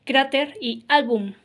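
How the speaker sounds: slow, with "cráter" and "álbum" stressed on their first syllables; stress on penultimate syllables. Shown as a demonstration. Teacher giving examples of graves, first-syllable stress on "cráter" and "álbum". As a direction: hit CRÁ in "cráter" and ÁL in "álbum". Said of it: "se acentúa en la penúltima palabra".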